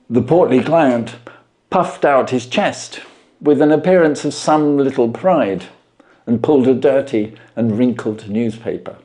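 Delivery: measured storyteller reading; story narration. A narrator's reading. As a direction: tell it like a classic mystery read aloud.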